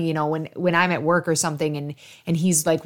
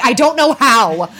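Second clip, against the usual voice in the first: laughing helplessly; 6 semitones higher, 6 dB louder than usual. Retold or imitated.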